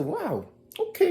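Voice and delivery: hushed amazement; whispered wow. Retold or imitated. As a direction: breathe it out in wonder. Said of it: "I said".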